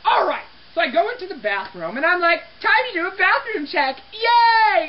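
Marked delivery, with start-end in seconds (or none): 2.6-4.9 lightly acted eager cheer, rising on the yay; chirpy mock cheer. Cleaner acting out starting a bathroom check, chirpy mock cheer. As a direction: play up a cheerful little yay.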